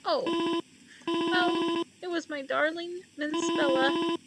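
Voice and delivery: lightly voiced elderly mother, sad; gently voiced grieving old lady.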